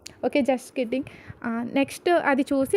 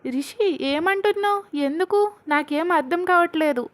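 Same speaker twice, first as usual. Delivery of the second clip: lightly anxious asking; 4 semitones higher than usual. Retold or imitated. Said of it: "కంగారుగా అడుగుతుంది".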